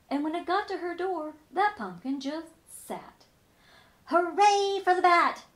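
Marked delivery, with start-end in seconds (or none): 4.0-5.4 high, loud joyful cheer; cheering shout. Acted. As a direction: shout it in triumph. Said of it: "shouted the witch".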